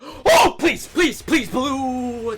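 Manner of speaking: desperate gamer plea; urgent pleading. Real, not acted. Begging the game for a pull.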